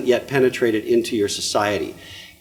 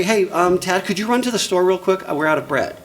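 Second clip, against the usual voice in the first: casual everyday ask; 6 semitones higher than usual. Retold or imitated. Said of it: "They say".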